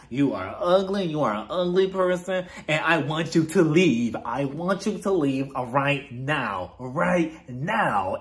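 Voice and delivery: mock British accent, slow and emphatic; Meredith. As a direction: imitate an affected British housewife spiraling. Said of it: "she continues spiraling out of control".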